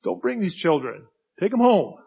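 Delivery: put-on disciples sternly shooing children off; a firm scolding no; mock rebuke. Disciples to the parents, a stern rebuke. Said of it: "They rebuked them".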